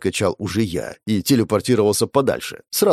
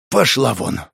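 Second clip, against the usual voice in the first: ordinary delivery, nothing marked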